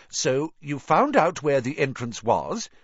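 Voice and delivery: a hint of a strict old teacher, rising in disbelief; lightly voiced Scottish-style professor, pressing him; stern McGonagall. A narrator's reading.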